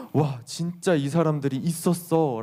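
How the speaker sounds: slow, drawn-out wonder; acted amazement. Disciples realizing these legendary figures were real, amazed. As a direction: marvel slowly, as if barely believing it. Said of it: "라고 감탄을 하는 거죠".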